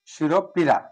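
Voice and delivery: শিরোপীড়া with a clear ও between শির and পীড়া; slow teacher demo of শিরোপীড়া; pronounced with o. Shown as a demonstration. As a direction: stress the ও in শিরোপীড়া. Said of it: "উচ্চারণ করছি ও দ্বারা".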